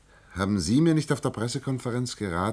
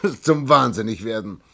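higher and louder, still laughing; laughing exasperation; 5 semitones higher, 5 dB louder than usual. Acted. Alien laughing in exasperation at her disbelief. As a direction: laugh out your despair.

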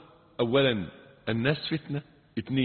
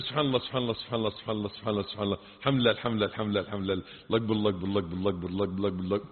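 softer mumbled chant of rattled-off phrases; mindless rushed dhikr; 7 semitones lower, 4 dB quieter, much faster than usual. Retold or imitated. Preacher imitating hasty prayer after salah, quiet and mechanical. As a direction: gabble the words like a chore, barely voiced. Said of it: "آه، تقول".

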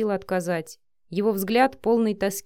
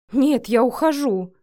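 loud, slow angry outburst; blurted in anger; 4 semitones higher, 6 dB louder than usual. A narrator's reading. Vika quits on her boss, angry loud outburst. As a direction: fire it back and storm off. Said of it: "выпалила в гневе девушка".

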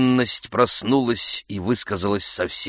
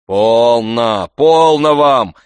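insistent calming; 3 semitones higher, 10 dB louder, much slower than usual. A narrator's reading. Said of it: "твердил дворник".

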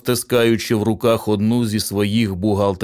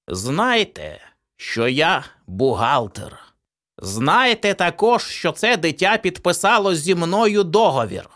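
higher, deliberate proclamation; solemn accountant; 8 semitones higher than usual. A narrator's reading. Accountant addressing the cowering parents, high and deliberate. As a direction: announce the contract with eerie authority. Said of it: "і промовив".

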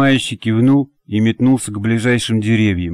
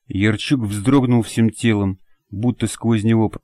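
usual speaking voice

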